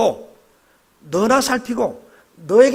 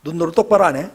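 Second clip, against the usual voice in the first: scolding hand. Pretend. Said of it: "손이 하는 말이".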